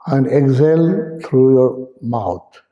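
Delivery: unhurried meditation guide, pausing between phrases; spaced-out, measured breathing instructions; guided meditation. Real, not acted. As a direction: lead them gently into breathing, leaving space after each instruction.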